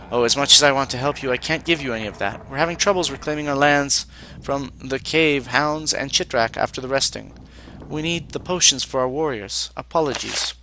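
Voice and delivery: lightly voiced formal mage; stiff, formal alien apprentice; Vanatai mage voice.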